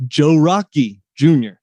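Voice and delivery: Joe Rocky Junior in a hint of a Pittsburgh accent; host showing off his guest's name in a light Pittsburgh accent. Shown as a demonstration. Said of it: "I have to say it in this accent".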